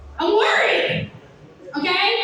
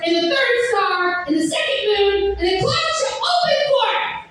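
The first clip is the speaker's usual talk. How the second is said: mock prophecy. Fed-up clerk answering the customer as a mock oracle, grandly. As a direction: proclaim it like a hammed-up priestess. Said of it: "clocked out Rachel kicked in".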